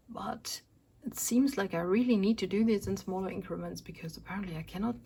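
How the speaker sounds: winded, voice fading; out of breath. Real, not acted. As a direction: rush the words before breath runs out. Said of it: "I can no longer talk".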